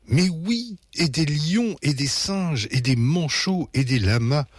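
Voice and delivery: high, happy list stepping down; joyful babbling. A narrator's reading. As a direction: parents chattering merrily to their children. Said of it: "babillent joyeusement les parents". (babillage joyeux de parents)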